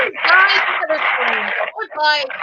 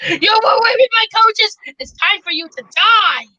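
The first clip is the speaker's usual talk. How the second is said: louder, higher accusing shout; mock angry accusation; 6 semitones higher, 3 dB louder than usual. Thomas confronting James, angry then threatening. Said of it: "he goes like".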